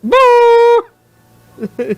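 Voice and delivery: high loud playful boo. Real, not acted. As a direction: boo the joke loudly. GM booing.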